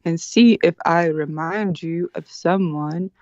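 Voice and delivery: slow, deliberate, every word spelled out; over enunciating. Shown as a demonstration. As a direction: lay out each word slowly and precisely. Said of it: "enunciate every word very slowly".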